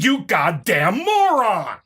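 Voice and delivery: slow scornful jab; contemptuous insult. Real, not acted. Ending the rebuttal to the opponent with a slow insult. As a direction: drag out the insult with disdain.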